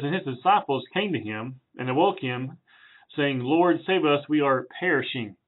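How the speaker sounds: measured Bible reading voice; reading the passage to the congregation; scripture reading. Acted. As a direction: read the verses with reverence. Reads scripture aloud.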